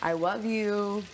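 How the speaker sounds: put-on slow cooing baby voice; baby talk. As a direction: coo it slowly like baby talk. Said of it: "never heard anybody talk like that".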